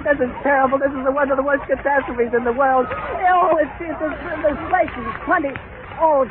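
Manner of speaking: a reporter watching disaster unfold, barely holding on; real horrified reporting. Real, not acted. Live report of the crash.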